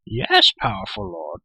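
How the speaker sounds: high, slow creature cry; crying-out Gurgi. A narrator's reading. Creature answering his powerful lord, crying out. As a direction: cry out high and eagerly obedient. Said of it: "Gurgi cried".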